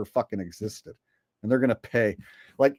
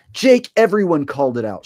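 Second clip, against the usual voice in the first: raised, louder mock retort; dismissive critic; 6 semitones higher, 7 dB louder than usual. Viewers answering Jake's I-told-you-so, mock dismissal. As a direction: hit back as an unimpressed viewer.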